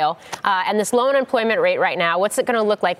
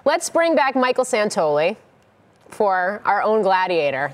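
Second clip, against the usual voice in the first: teleprompter stumble; slower than usual. Real, not acted. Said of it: "that's what the teleprompter says".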